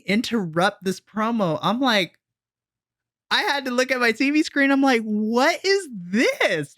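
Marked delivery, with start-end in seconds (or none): 5.0-6.8 slow, drawn-out stunned question, pitched up; baffled surprise. Retold or imitated. Fan staring at the TV at the interruption, slow baffled disbelief. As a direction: stretch it out in disbelief.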